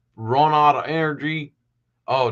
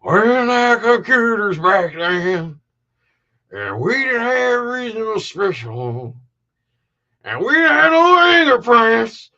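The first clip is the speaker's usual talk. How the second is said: high, loud, drawn-out redneck drawl; hammed-up redneck accent; 11 semitones higher, 6 dB louder, slower than usual. Host mimicking a TV detective for viewers, exaggerated redneck accent. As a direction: imitate a redneck detective, slow and very high-pitched. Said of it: "he had the most redneck accent".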